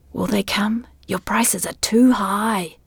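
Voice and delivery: unvoiced whisper. A narrator's reading. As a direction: breathe it as a whisper. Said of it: "the voice whispered".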